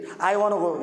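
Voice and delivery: casual "I wanna go" as slang; American slang "wanna". Shown as a demonstration. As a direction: run "want to" together into "wanna". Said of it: "American English रहती है".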